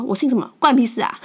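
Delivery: a loud, indignant comeback; angry retort. Retold or imitated. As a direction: fire it back at the rude man, furious. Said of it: "我就很生气说". (很生气地大声回嘴)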